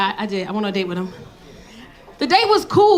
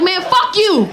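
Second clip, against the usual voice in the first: higher and louder, a hurt snap back; mock angry retort; 7 semitones higher, 5 dB louder, slower than usual. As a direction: fire it back at him, stung. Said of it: "I was like".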